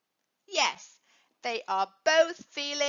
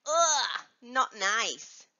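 disgusted; 3 semitones lower, much slower than usual. Shown as a demonstration. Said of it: "taste something you don't like".

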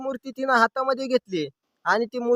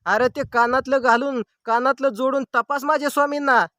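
mildly acted indignant scolding, pitched up; retold angry shout; 4 semitones higher than usual. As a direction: imitate an old woman crossly telling off the doctor. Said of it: "डॉक्टरांकडे ओरडून म्हणाली". (रागावलेल्या आजीचं हलकं ओरडणं)

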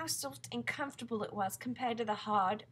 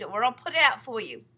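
impatient shout; 11 dB louder than usual. Acted. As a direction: hurry her up, yelling. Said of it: "shouted the centipede".

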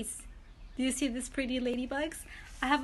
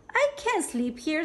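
ladybug voice; 5 semitones higher, 3 dB louder than usual. Acted. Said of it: "said the lazy ladybug".

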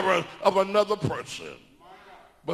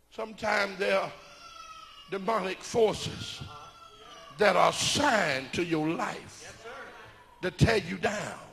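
taking time; 5 dB quieter than usual. Real, not acted. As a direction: ease back and deliver it phrase by phrase. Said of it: "I'm gonna take my time".

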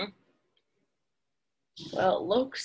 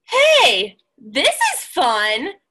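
delighted bird; 6 dB louder, much slower than usual. Acted. Bird cheers up.

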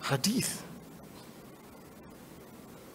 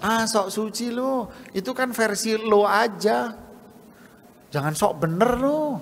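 mocking sneer; 3 semitones higher than usual.

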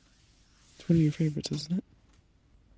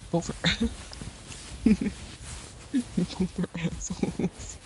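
being tickled; 4 semitones higher than usual. Real, not acted. Being tickled mid-sentence.

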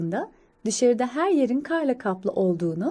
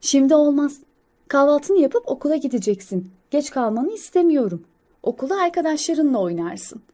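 slightly raised voice of a refusing mother; mother squirrel; 4 semitones higher, 3 dB louder than usual. Acted. Mother squirrel refusing snow play before school, mildly firm motherly voice. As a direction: lightly play a firm mother, a bit higher. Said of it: "Anne sincap".

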